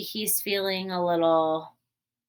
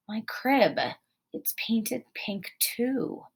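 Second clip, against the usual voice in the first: muttered; 3 semitones higher, slower than usual. Acted.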